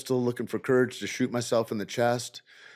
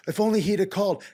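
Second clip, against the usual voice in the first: much higher, sarcastic whine; mocking quote; 10 semitones higher, 3 dB louder, faster than usual. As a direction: parody the regretful mourner. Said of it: "nobody that feels that way".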